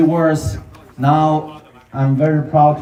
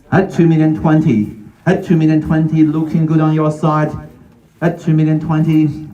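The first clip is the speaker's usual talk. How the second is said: auctioneer calling. Real, not acted.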